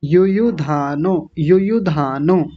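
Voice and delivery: यु यु धानो with short yu-yu, long dhaa; careful pronunciation. Shown as a demonstration. Teacher says speak it like this, यु यु धानो with long dhaa. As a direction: run यु यु into a drawn-out धानो. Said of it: "ऐसे बोलेंगे".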